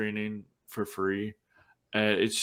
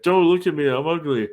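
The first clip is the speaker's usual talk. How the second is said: higher, louder mock protest from a little boy; imitated upset boy; 7 semitones higher, 6 dB louder than usual. Ugly boy begging her not to look, mock upset. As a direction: cry it out as a retold little boy's plea. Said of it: "little boy who's crying".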